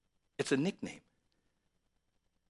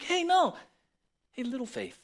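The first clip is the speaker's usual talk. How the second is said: tender; 5 semitones higher than usual. Retold or imitated. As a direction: soothe him kindly. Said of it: "He's like".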